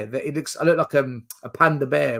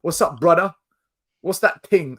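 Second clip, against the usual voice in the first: teasing impression of London street talk; mock London accent; 2 semitones higher than usual. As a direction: imitate his put-on London accent. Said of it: "And I hear you going".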